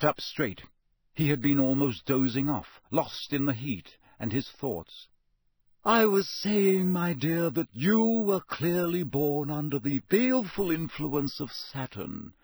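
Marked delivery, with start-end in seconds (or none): 5.8-12.3 faint resentment. A narrator's reading. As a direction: let a little resentment show. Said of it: "a faint note of resentment in her voice".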